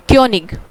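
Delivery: क्योनिग said with a rounded ö; German word König. Shown as a demonstration. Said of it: "क्या बोलेंगे?". (German "क्योनिग" ö ध्वनि के साथ)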